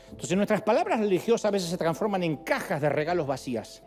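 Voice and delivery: usual speaking voice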